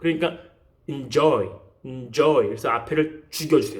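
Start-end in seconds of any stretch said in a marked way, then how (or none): 0.9-2.5 enjoy: joy stressed, en swallowed. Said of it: "이건 강세가 뒤에 있단 말이죠".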